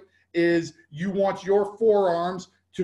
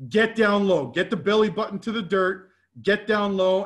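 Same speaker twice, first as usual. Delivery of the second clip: louder, punchy cues barked at players; called-out coaching cues; 3 semitones higher, 4 dB louder than usual. Shown as a demonstration. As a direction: call it out like a coach on the field. Coach calling cues over game film.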